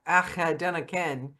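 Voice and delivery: amateur stab at Scottish; attempted Scottish accent. Shown as a demonstration. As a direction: try a hesitant Scottish accent. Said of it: "I don't even sound Scottish doing it".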